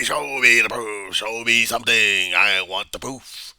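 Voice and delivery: loud, slow, drawn-out demand; insistent demand. Acted. Mobster demanding proof from the other guy, slow loud insistence. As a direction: hammer each phrase slowly at full voice.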